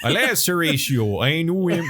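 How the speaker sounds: high, botched Danish Hamlet; comic Danish accent drifting toward Canadian; attempted Danish accent. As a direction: declaim Hamlet in a badly faked Danish accent. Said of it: "everyone has got a really thick Danish accent".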